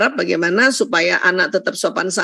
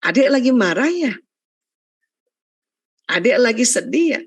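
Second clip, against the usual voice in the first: naming the feeling. Shown as a demonstration. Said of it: "kita yang ngomong".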